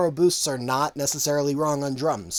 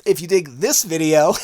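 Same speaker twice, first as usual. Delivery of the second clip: laughing through the retake after a flub; 2 semitones higher, 8 dB louder than usual. Real, not acted. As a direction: chuckle as you redo the line. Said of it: "bleh, yep".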